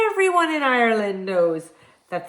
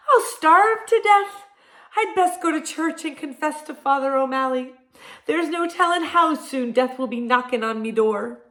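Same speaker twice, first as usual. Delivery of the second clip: dramatic wail; 5 semitones higher than usual. Acted. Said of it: "wailed Jamie".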